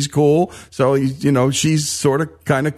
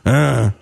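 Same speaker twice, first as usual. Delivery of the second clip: imitated grunt; 2 semitones lower than usual. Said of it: "he does that famous Jesse grunt".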